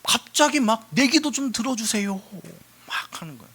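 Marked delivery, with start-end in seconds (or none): 0.9-2.2 higher acted plea; imitating an earnest prayer; earnest pleading. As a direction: beg to be heard, lightly played. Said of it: "간절하게 구하고 있단 말이야".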